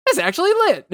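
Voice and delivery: high excited squeal; excited cheer. Retold or imitated. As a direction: squeal it like you just won. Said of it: "me literally being like".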